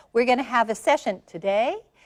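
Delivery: today lifted with rising uptalk intonation. Describing a speech habit: a statement rising at the end like a question. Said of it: "they make a statement and they go up at the end, like".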